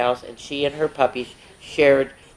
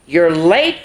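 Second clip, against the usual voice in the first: gentle scolding; 5 dB louder than usual. Acted. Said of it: "scolded gently".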